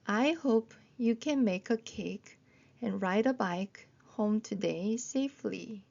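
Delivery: slow model sentence, joined into phrases; slow phrased reading. Shown as a demonstration. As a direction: link the words but keep it slow. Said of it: "한 번 더 읽어볼게요".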